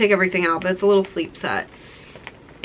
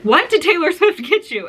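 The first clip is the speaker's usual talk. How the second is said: a higher mock dad voice, amazed; imitating dad; 9 semitones higher, 3 dB louder than usual. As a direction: play the stunned dad behind her. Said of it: "he was like".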